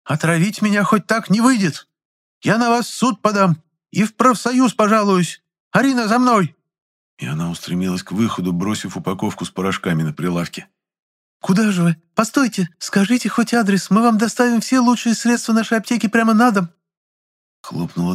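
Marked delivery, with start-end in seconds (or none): 0.0-6.5 furious threats. Acted. Furious customer storming out. 11.4-16.7 desperate calling after. Acted. Chemist pleading after leaving customer.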